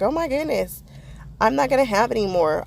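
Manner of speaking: a touch of high-pitched mock panic. Crafter fretting about running out of acetate, mock panic. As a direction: fret like you might run out. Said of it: "I get very nervous".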